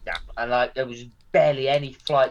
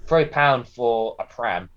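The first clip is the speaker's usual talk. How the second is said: imitating her offer; 2 semitones lower, slower than usual. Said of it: "how she said it".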